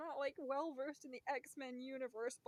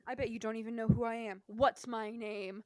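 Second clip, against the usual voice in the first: imitated sassy challenge, louder; mock a character sassily quizzing a fan; 6 dB louder than usual. Park character quizzing fans who came to meet him, sassy. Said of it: "got all sassy with us".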